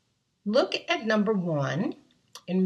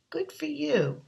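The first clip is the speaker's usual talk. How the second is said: praise; 7 semitones higher than usual. Real, not acted. Praising child's answer.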